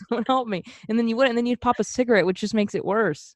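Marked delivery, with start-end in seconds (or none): 0.1-0.6 mock helpless plea.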